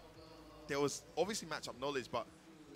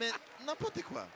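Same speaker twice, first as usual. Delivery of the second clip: mock French accent; 10 semitones higher than usual. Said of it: "my accent is so".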